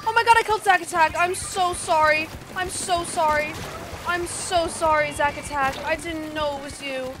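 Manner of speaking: distraught apology. Real, not acted. Player sorry for killing Zack Attack, distraught.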